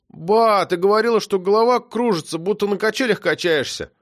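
put-on high, urgent child's voice; boy reminding grandma of dizziness; pleading boy. A narrator's reading. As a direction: try to back grandpa up.

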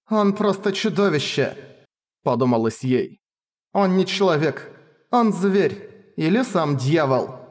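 high, horrified whisper of thought; shaken, slowing at the end. Acted. Princess thinks in horror.

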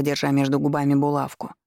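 usual speaking voice

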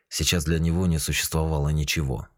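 ordinary delivery, nothing marked

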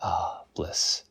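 breathy whispered sigh of bliss; a hushed, dreamy aside. Real, not acted. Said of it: "whispered aside".

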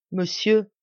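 a touch of tears, rising plea; a mild tearful call; voix un peu larmoyante. Acted. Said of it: "le visage baigné de larmes".

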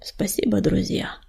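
soft, low, almost whispered thanks; hushed and touched; murmured, moved. A narrator's reading. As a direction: barely get the thanks out. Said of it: "пролепетал Огнезвёзд".

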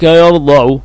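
يرضع as yarda'u; يرضع opened on the middle consonant; fatha form. Shown as a demonstration. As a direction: say يرضع with an "a" on the Dad. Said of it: "بالفتح في الماضي".

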